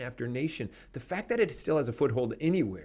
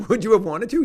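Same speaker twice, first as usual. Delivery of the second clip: pushed out louder and higher, insisting; louder repeat; 9 semitones higher, 10 dB louder, faster than usual. Real, not acted. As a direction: repeat the question forcefully, pressing him.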